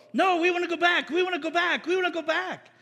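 high, insistent group whine; mock complaining. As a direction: clamour to go back like spoiled followers. Acting Israel demanding to go back.

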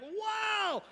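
high, awed exclamation; Peter's jaw dropping at the risen Lord; amazed wow. Retold or imitated. Peter seeing the risen Jesus, amazed high wow. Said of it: "he sees Jesus and he's like".

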